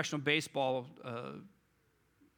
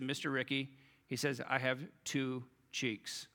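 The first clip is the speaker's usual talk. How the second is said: calm reply; 3 semitones lower, 5 dB quieter than usual. Retold or imitated. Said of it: "calmly looked at Micker".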